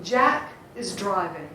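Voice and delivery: "Jack is driving" with beats on JACK and DRI; "Jack is driving" with a light "is"; natural rhythm. Shown as a demonstration. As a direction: stress "Jack" and the first syllable of "driving". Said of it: "there is rhythm in everything we say".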